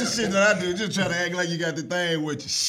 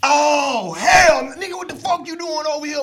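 higher, louder startled hood greeting; mock surprised shout; 9 semitones higher, 8 dB louder than usual. Imitating locals shocked to see him, loud mock shout. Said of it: "where nigga be like".

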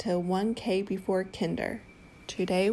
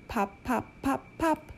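cork pop; 5 semitones higher, 4 dB quieter than usual. Pretend. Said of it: "He can sound like a cork".

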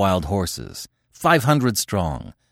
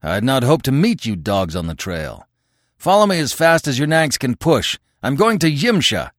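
raised voice, climbing higher as it goes; shouting; 5 semitones higher, 3 dB louder than usual. Acted. Conan orders the horsemen to follow him, shouting. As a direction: call it out to a crowd below. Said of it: "Conan shouted suddenly".

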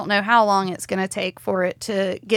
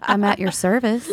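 naive innocence. Pretend. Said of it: "You sound so innocent".

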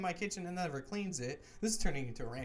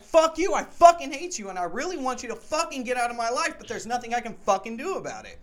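much louder and higher, yelling in rage; furious retold yell; 8 semitones higher, 10 dB louder than usual. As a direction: scream it at him with everything you've got. Retold screaming at roommate.

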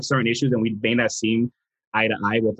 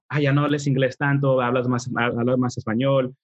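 higher-pitched imitation of a nagging aunt; mock scolding relative; 3 semitones higher than usual. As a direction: mimic family scolding in Spanish. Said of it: "So they're just like".

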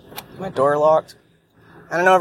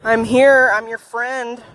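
pet-talk reassurance; 5 semitones higher, slower than usual. Pretend. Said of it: "like you're my cat".

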